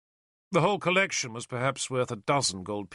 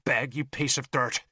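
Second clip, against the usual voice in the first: snarl. Acted. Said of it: "she snarled at him".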